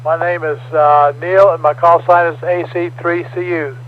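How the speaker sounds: formal scripted net opening; radio net announcer. Acted. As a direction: read the net preamble steadily. Reads net control preamble.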